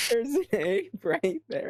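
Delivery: high, slow, drawn-out insistence; slow high-voiced in-character protest; insistent in character. Repeats the in-character sighting.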